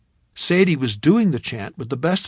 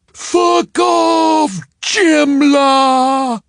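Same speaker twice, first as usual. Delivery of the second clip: high, loud vicious shout; snarl; 13 semitones higher, 10 dB louder, much slower than usual. A narrator's reading. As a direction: spit it at him in fury. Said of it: "had snarled at me".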